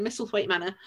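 lightly posh English accent. Shown as a demonstration. Co-host refuses the requested Yorkshire accent, posh accent. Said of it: "I'm saying in the posh accent".

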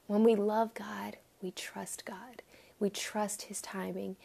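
soft, near-whispered assurance; soft hushed sermon voice. Real, not acted. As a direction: lean in and breathe the words. Intimate point in sermon.

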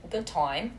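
badly faked British accent on "time"; mock British, played as a goof; terrible British accent. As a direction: slip into a clumsy British accent. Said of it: "My terrible British accent".

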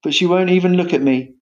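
high, plaintive lament; mournful. A narrator's reading. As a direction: lament an unreturned love. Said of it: "said Hamlet mournfully".

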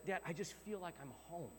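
soft, heartfelt confiding; hushed, understated tenderness; quiet sincerity. Retold or imitated. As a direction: retell a son softly confiding in his dad. Retells son's heartfelt words to dad.

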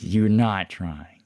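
slow mock scolding, stretched out; retold snap. Counselor snapping at a student over attendance, retold. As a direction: imitate an angry counselor, held back. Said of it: "he knows this himself that he snapped".

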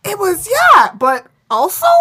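squeaky high mock commenter voice. Podcast host mimicking torn viewers, high and loud. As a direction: voice the wishy-washy commenters up high. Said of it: "everyone was just like".

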